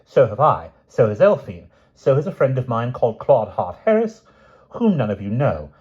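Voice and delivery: high, defiant, ringing announcement; young woman announcing the news to the family, loud and clear. Acted. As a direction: declare it boldly to the whole family. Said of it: "said loudly and clearly".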